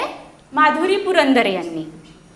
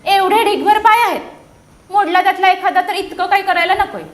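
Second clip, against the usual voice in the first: louder, brushing-off butterfly; dismissive butterfly; 3 semitones higher, 5 dB louder than usual. Acted. Butterfly dismissing the centipede's broken leg, a bit louder. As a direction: wave off the fuss. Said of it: "फुलपाखरू म्हणालं".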